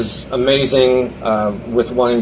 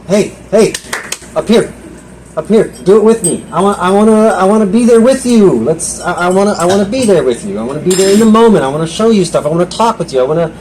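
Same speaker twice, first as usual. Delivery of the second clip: lightly voiced God, pitched higher; a hint of a divine voice, raised in pitch; voicing God; 4 semitones higher than usual. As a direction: speak as God calling him back, a little higher. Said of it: "And God had to remind me again".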